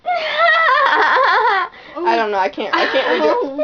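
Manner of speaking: giggling helplessly; laughing through the words; laughing fit. Real, not acted. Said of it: "What if I laugh like the girl".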